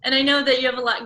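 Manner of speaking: fast, words through a laugh; chuckling quick remark; laughing while talking. Real, not acted. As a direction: rush it, still laughing.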